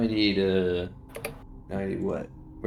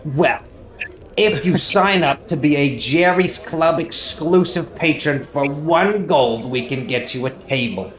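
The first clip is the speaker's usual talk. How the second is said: salesman-like tavern owner, starting high and loud; Jerry; 4 semitones higher, 3 dB louder than usual. Acted. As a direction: rattle through the membership terms as a sales pitch. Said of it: "I'm Jerry".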